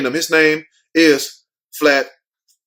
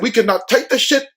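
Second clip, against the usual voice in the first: higher, exasperated mock attendant voice; fed-up attendants; 4 semitones higher than usual. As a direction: whine it like fed-up stewardesses. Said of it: "they said".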